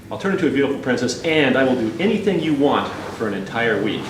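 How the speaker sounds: quick, mildly exasperated pleading; frustrated. Acted. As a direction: hurry the offer, a touch fed up. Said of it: "a more frustrated voice starts to emanate".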